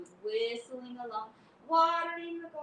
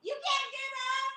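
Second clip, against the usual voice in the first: high, slow mocking taunt; mock the fallen cat; teasing taunt; 7 semitones higher, 6 dB louder, slower than usual. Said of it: "He said".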